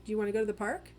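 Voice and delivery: "park" lifted up at the end like a question; rising question tune. Shown as a demonstration. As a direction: let the pitch climb on "park". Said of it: "up rise at the end of the sentence".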